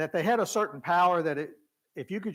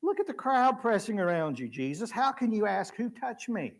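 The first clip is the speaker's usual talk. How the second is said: scolding apostles; 5 semitones higher than usual. Retold or imitated. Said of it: "listen to the apostles".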